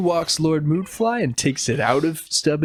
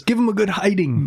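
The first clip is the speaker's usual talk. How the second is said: quoting Polly; 7 semitones higher than usual. Retold or imitated. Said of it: "He says".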